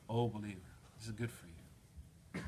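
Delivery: slow, softening tender call; gentle. Retold or imitated. God gently addressing the believer, slow and tender. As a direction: ease it out slowly and tenderly, like a reassurance. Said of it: "is gently saying to you".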